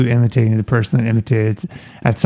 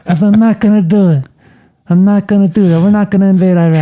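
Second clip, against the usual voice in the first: George W. Bush impression; 5 semitones higher than usual. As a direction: do a hammy George W. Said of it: "George W".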